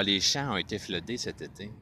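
New Brunswick Brayon, mixing French and English; Brayon French accent. Shown as a demonstration. Showing how Edmundston mixes English into French, Brayon accent. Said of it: "so it can be du braillon".

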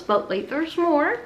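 mock infomercial pitchman line. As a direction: sell it like a late-night TV ad. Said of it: "I sound like an infomercial".

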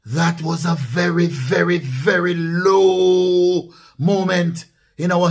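slow, drawn-out very very very low; slow stressed lament; emphatic stress. Real, not acted. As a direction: stretch each very. Stretched emphatic very very very.

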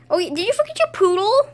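high, loud question; play-acted high-pitched asking; hollered question. Calling a question to friend.

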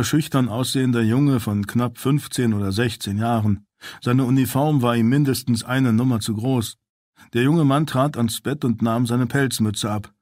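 usual speaking voice

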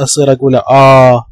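"آ" said open and drawn out, slowly; open short vowel. Shown as a demonstration. Teacher demonstrating the vowel to students, slow. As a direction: stretch the "آ" as the right sound. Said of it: "ما يصير أقول لا".

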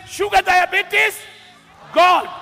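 loud triumphant call of each disease; cross it off with a loud gone; angel declaring. Acted. A lightly voiced angel loudly declaring malaria gone. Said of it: "And the angel says".

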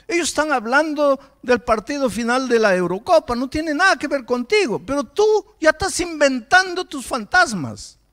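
preaching forcefully to the congregation; predicación enérgica. Acted. (predicación con fuerza, voz alzada)

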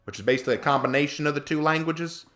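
put-on down-home South Carolina accent; Southern accent. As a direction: rant lightly in folksy Southern dialect. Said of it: "do please only talk like that".

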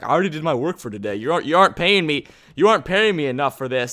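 a hint of a grumpy worker complaining; lightly voiced tool grumbling about pay; grumpy pick voice. Player voicing his grumpy pickaxe, mildly grumbling. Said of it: "he gets kinda grumpy".

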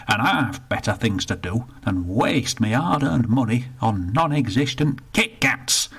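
put-on indignant old northerner, rushed in the middle; grumpy old Bertie. Bertie complains to the attendant, indignant grumble. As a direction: grumble about the lost pound.

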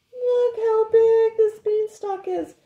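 high, loud and wide-eyed; amazed. Real, not acted. Reading to child, amazed.

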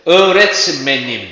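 slow "Öğretmenim" with men stressed. Shown as a demonstration. Teacher showing where stress falls in "Öğretmenim". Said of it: "kısma men ekini ne yapacaktır? Kayacaktır".

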